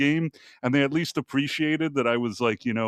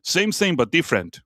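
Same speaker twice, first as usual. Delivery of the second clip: imitating Thai vendor; 3 semitones higher than usual. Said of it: "another thing that they used to say".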